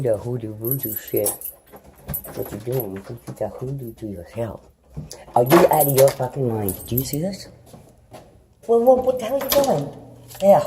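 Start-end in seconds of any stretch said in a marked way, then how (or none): 5.4-10.7 loud, high furious yell; furious shout. Retold or imitated. Mother screaming at family over hoodoo, loud and high. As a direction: blow up at them.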